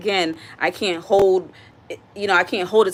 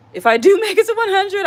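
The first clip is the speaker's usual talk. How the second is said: laughing; 12 semitones higher, 7 dB louder than usual. Real, not acted. Laughing at living to a hundred.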